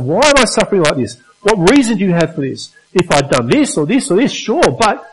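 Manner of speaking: a lightly voiced anguished Job; crying out. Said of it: "he's crying out".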